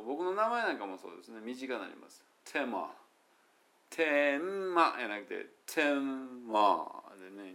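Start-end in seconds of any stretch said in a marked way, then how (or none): 3.9-7.3 "天満" squeezed into two syllables, slow. Shown as a demonstration. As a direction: say "天満" as Ten-ma in two beats. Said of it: "二、二音節になりますね".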